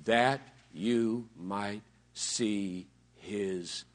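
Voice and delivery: hushed, awed whisper; low reverent whisper of awe. Acted. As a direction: breathe it like a secret. Awed answer, voice drops.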